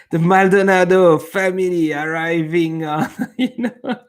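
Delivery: high, loud, talking through real laughter; laughing. Real, not acted. Streamer announcing a family joining the chat, laughing.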